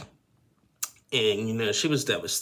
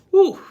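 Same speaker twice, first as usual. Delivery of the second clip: emotional whew; 14 dB louder than usual. Real, not acted. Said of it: "That just got me really emotional".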